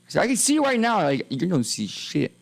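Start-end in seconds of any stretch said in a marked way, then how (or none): 1.3-2.3 menacing agent. Retold or imitated. Streamer voicing the fed warning him, slow and menacing. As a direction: lean in and warn him off, slowly. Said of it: "And they said".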